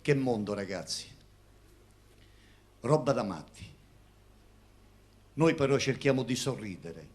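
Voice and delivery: loud, rousing poem declamation; poetry recitation. Acted. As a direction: declaim it to the audience.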